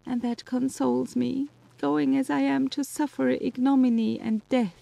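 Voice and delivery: high voice, breaking with tears; weeping. Acted. Justine weeping as she tells Elizabeth of her horror. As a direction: speak through weeping, then soften toward heaven.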